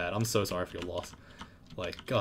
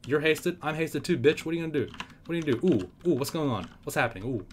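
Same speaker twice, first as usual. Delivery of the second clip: taunting, pitched up; 5 semitones higher than usual. Acted. Taunts enemy, higher voice.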